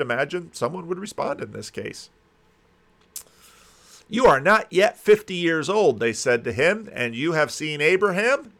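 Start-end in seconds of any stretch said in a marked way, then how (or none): 4.1-6.0 louder, higher-pitched challenge; incredulous jeer, pitched up; mocking. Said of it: "they're mocking him now". 6.9-8.5 higher, disbelieving question; mock him with the question; incredulous jeer, pitched up. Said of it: "they're mocking him now".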